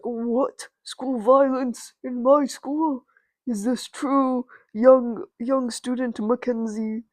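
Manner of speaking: lightly voiced, drawn-out principal; slow, theatrical disbelief from an authority figure; a hint of a shocked school principal; stern principal. Principal confronts student over violence.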